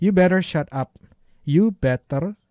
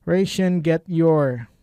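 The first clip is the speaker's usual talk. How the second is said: slow read-out; 4 dB louder, much slower than usual. Shown as a demonstration. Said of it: "slow demo reading".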